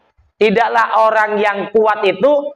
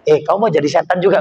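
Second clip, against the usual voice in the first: quick retort; 3 semitones lower, much faster than usual. Retold or imitated.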